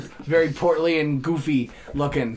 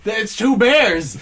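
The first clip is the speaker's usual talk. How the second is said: mock panic; 3 semitones higher, 5 dB louder than usual. Panicked quote in game story.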